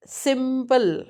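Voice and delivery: first syllable of "simple" leaned on; stress on S. Shown as a demonstration. Teacher showing students where stress falls, stressed opening of "simple". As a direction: lean on the opening S of "simple", then let it fall. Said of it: "S में stress आता है".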